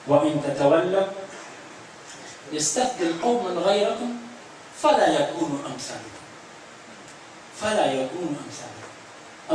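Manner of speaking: measured Arabic verse recital; Quran recitation. Real, not acted. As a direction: recite solemnly with a pause after each phrase. Recites scripture in sermon.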